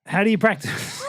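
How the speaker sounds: high, loud comic outburst; mock shout. Host putting the practice question to the guests, mock high shout. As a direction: blurt it out high and over-loud.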